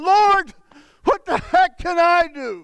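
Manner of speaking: a frustrated prayer called out; exasperated plea. Retold or imitated. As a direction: throw the question at heaven. Desperate cry to God.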